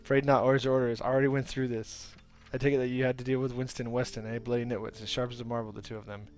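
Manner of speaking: loud, hearty bridge-keeper; gruff gnome. Acted. Gnome bridge-keeper refuses the player, hearty and loud. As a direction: boom it out like a stubborn old gnome.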